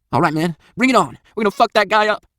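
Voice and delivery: high, loud gung-ho holler; loud hooting. A narrator's reading. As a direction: whoop it up, spoiling for a fight. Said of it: "He hoots loudly".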